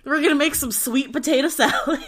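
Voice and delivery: "sweet" punched with a laugh in the voice; laughing announcement, heavy emphasis on "sweet"; stress on SWEET. Real, not acted. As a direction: lean gleefully on the word "sweet". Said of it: "Emphasis on the sweet".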